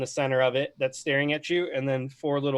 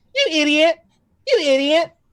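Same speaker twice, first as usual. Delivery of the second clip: put-on shrill, very high, very loud girl's yell; 10 dB louder than usual. Voicing a gazer that perfectly mimics the sailor girl: imitating the sailor girl's voice. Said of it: "in perfect replication of the girl's voice".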